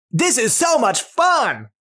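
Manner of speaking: high, drawn-out gleeful exclamation; slow, high burst of delight; very happy. Shown as a demonstration. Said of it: "when we feel very happy".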